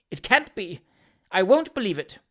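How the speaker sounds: tight-lipped, offended refusal; bridling disbelief. A narrator's reading. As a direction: refuse to believe it, bristling. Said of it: "biting her thin lips and bridling up".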